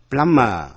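"Plumber" said "plummer" with no b; silent b. Shown as a demonstration. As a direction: leave the b out of "Plumber". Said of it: "không đọc".

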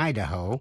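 Idaho as "I-da-ho"; stress on first syllable. Shown as a demonstration. Teacher contrasting two states, Idaho stressed on the first syllable. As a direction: lean on the opening I of Idaho. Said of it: "nhấn mạnh vào vần đầu".

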